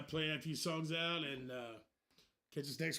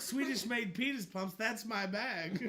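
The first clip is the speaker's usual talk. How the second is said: slow Austin Powers drawl, laughing; lightly voiced groovy spy; 4 semitones higher, 4 dB louder, slower than usual. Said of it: "he was British, baby".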